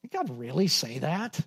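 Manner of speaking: quietly scornful doubt; incredulous. Retold or imitated. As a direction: scoff at the very idea. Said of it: "You, you can hear that in his voice here".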